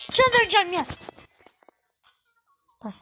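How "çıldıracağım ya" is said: "Çıldıracağım" said high and loud; frustrated outburst. Real, not acted. Gamer losing patience, loud frustrated outburst. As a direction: snap in rising fury.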